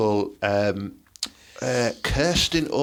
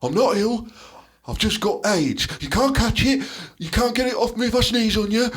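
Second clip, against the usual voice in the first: earnest actor's speech, slightly higher; acted film speech; 4 semitones higher than usual. Reliving Ted's pub speech, acting earnest and moved. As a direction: deliver it like an Oscar-bait monologue. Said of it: "his Philadelphia impression".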